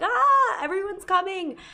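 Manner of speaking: put-on very high, drunken yelling and screaming. Retelling how an arrested drunk man made a commotion, imitating drunken screaming. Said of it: "he was like drunkenly screaming".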